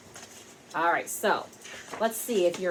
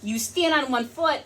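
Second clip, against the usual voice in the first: higher, bright storybook character voices; 8 semitones higher than usual. Acted. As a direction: play the characters up high for kids. Pete and Callie voiced.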